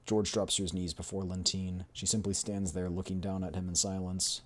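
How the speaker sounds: measured, dramatic game narrator; story narration. A narrator's reading. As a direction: read the scene as a storyteller.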